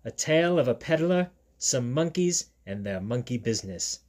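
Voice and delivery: emphatic British title reading; put-on British storyteller voice; British accent like Steve. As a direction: announce the book in a London-style British accent. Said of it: "I do a sort of British accent".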